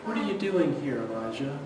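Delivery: hushed voice of God. Retold or imitated. God quietly calling Elijah in the cave, hushed. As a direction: speak it gently, let the name almost vanish. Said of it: "a voice came to him and said".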